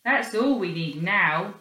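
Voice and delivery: dry remark. Acted. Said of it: "remarked Robin".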